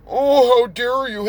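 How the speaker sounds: mock a pearl-clutching objector; exaggerated offended indignation; mock outrage. Mocking an offended white guy.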